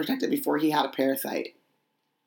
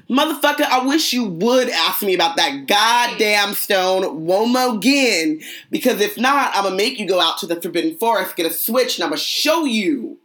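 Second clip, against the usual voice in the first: angry grandma voice; 5 semitones higher than usual. Acted. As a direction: scold like a fed-up grandma. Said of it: "turn into a black grandmother and say".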